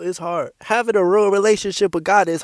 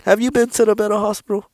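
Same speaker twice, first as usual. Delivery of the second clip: fast, stammering "are you serious" question; incredulous roast; 5 dB louder, faster than usual. Real, not acted. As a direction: rush it out, half laughing at them. Same mock confrontation again.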